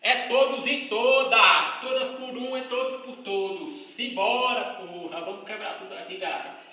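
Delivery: loud, hyped-up mock recifense; rallying carnival shout in a Recife accent; imitated Recife accent. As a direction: belt it out like a fired-up recifense. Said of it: "O recifense diz".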